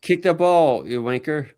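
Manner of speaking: slow, hammed-up Australian accent; mock Australian accent. Mocking Australian fans at a footy match in an Australian accent. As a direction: put on an Australian accent for a laugh. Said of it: "Australian face".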